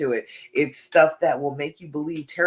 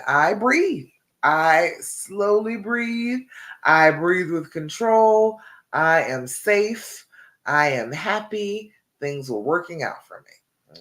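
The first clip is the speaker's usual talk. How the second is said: slow, steady, meant-it affirmation; calm affirmation; slower than usual. Shown as a demonstration. Coach showing viewers how to say affirmations, slow and sure. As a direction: say each line slowly like you believe it. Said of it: "that's a simple affirmation".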